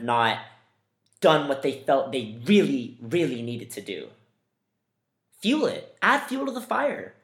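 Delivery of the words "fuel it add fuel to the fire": rallying cry. Real, not acted.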